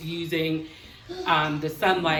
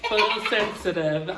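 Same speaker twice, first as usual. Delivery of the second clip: laughing. Real, not acted. Teacher laughs at wrong word.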